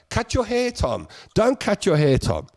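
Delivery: high, mocking singsong nag; mocking repeated plea. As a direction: tease like a pestering fan. Mock nagging quote, high pitch.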